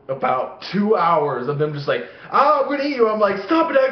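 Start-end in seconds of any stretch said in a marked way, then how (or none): 2.3-3.1 high-pitched monster threat; mock alien menace. Parents pretending to be aliens at their kid, mock menace. 3.4-3.9 high, loud protest; mock child panic. Kid trapped under blanket begging dad, mock panic. Child self yelling at parents.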